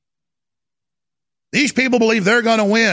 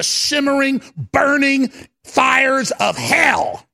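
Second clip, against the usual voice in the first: fiery preaching; 3 semitones higher, much slower than usual. Real, not acted. Host preaching about fires of hell. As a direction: let the words burn. Dramatic sermon climax.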